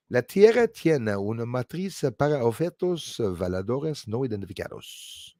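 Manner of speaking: careful learner's Spanish accent. Shown as a demonstration. Streamer trying out a Spanish phrase for viewers, careful Spanish. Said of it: "I hope I said that well".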